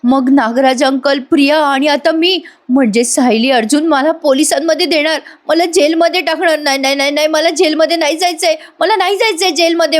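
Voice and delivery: a hint of terrified self-talk; lightly acted fear of jail; panicked muttering. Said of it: "साक्षी मनाशीच बोलत असते".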